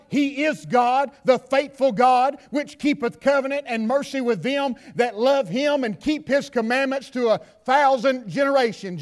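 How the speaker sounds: measured, slowing reading of scripture. Acted. Preacher reading scripture to the congregation, measured. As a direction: read the verses out to the congregation.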